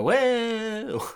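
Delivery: high stretched whoa; high mock yelp of a girl dropped from a tree; mock falling girl. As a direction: squeal it like she's falling. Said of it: "Her go".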